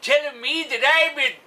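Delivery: put-on grumpy old man.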